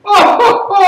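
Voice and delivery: high, drawn-out jeering shout; hammed-up Italian exclamation; reaction to stupidity. Shown as a demonstration. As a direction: cry out at someone's blunder. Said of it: "Someone does something stupid".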